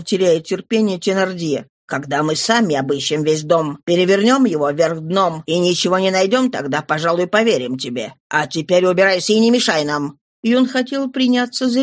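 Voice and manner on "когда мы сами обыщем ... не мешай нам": a lower, rough gang-boss voice; gruff Thénardier, lower. Acted. Thénardier cuts Éponine off, lower and dismissive. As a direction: brush her off in a lower voice.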